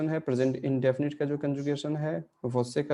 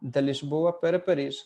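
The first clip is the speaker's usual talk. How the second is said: slow example reading; much slower than usual. Shown as a demonstration. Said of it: "example sentence read out".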